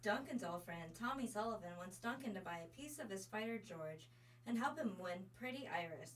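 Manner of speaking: lightly put-on broadcaster's read; broadcasting voice. Co-host reads next episode's teaser on request, light broadcasting voice. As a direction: read it out like an announcer, only slightly heightened. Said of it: "your best broadcasting voice".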